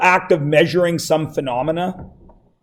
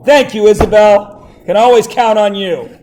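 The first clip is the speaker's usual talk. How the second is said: mock grateful; 4 semitones higher, 4 dB louder than usual. Real, not acted.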